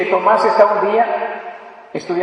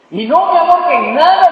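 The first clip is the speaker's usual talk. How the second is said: high, pleading seductive woman's voice, a bit louder; coaxing woman; 8 semitones higher, 5 dB louder than usual. Retold or imitated. The woman in the tower coaxing Tomás, pitched high. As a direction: play the woman sweet-talking him.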